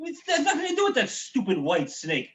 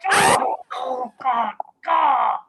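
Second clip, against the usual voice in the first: panicked cry; 5 dB louder, much slower than usual. Acted. Father panicking.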